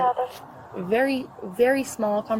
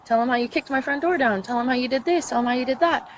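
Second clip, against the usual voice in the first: higher, goading list of accusations; retold taunt, pitched up; retold accusing; 5 semitones higher than usual. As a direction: dare them to confess, point after point.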